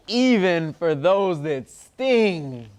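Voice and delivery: slow, measured picture-book reading with long pauses; reading to children. Acted. Reader shares a love letter to Earth with children, slow storytime reading. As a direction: read it out phrase by phrase for little listeners.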